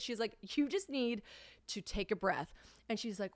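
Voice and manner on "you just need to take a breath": softer, soothing retold voice; calming friend. Friend steadying the panicked caller, calm and soft. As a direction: talk someone down after their outburst.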